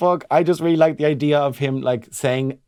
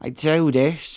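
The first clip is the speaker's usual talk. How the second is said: put-on Cork lilt with rising end; relished Cork accent; 2 semitones higher, much slower than usual. Shown as a demonstration. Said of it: "there's much more beautiful ones".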